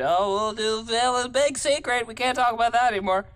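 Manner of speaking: teasing impression of a cagey buddy; mock secretive friend. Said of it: "and then when I mention it".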